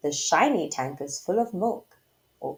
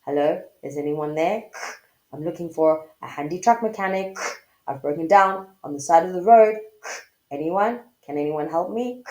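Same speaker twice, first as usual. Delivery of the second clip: over cb radio; 4 semitones lower, 4 dB louder, faster than usual. Shown as a demonstration. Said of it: "Can you pretend like you're on a C B radio?".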